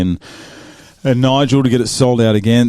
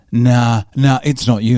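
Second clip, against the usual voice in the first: shitty; 3 semitones higher, 3 dB louder, slower than usual. Retold or imitated. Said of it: "she was getting a bit shitty".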